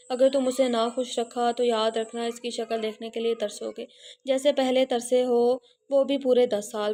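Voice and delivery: a lightly stressed brother's warning; with emphasis. Acted. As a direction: drive the threat home. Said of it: "अपनी बात पर जोर देता हुआ बोला".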